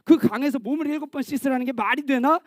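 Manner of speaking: indignant general, lightly hammed up; mock anger. Naaman rejecting the river cure, indignant. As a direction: scoff in acted outrage. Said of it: "이러면서 막 화를 냈다고요".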